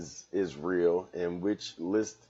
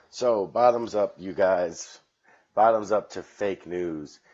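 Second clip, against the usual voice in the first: loud toast; 6 dB louder, slower than usual. Real, not acted.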